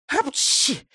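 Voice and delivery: mock sneeze. A narrator's reading. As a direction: burst out a sneeze. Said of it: "чихнув".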